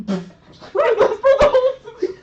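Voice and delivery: teasing through laughter; laughing. Real, not acted. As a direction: laugh while egging them on.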